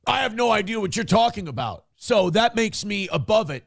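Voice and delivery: smug clueless voice. Retold or imitated.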